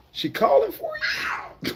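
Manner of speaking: She calling for you sung up high and slow through laughter; high drawn-out laughing tease; high laughing singsong. Shown as a demonstration. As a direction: stretch it out high, cracking up.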